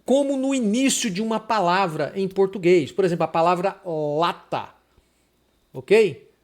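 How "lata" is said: "lata" with the first L held; loose initial L. Shown as a demonstration. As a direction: linger on the L of "lata". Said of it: "o L solto assim".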